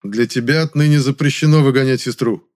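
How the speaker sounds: a man laying down the law to a brother; too sharp. Acted. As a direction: cut him off hard. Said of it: "слишком резко сказал я".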